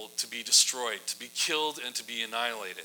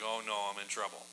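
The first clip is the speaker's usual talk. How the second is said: dismayed mutter; 5 semitones lower, 11 dB quieter than usual. Retold or imitated. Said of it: "he kinda takes this big gulp".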